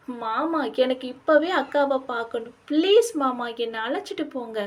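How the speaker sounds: insistent plea, rising on the please; urgent pleading. Acted. Distressed wife begs husband to take her along, urgently pleading. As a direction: beg anxiously, pushing hardest midway.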